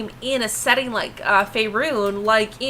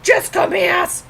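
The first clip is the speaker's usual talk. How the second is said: playful shout, pitched up high; calling out; 9 semitones higher, 4 dB louder than usual. Real, not acted. Streamer calling to a viewer, playful loud call. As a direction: call the name out across the room.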